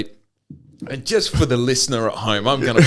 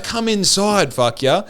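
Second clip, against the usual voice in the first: higher exasperated quote; 6 semitones higher, slower than usual. Retold or imitated. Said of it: "she's like".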